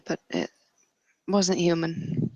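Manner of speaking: soft, half-swallowed reassurance; hushed reassurance. Acted. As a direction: quietly soften the confession so he won't worry. Character confesses killing, reassures him.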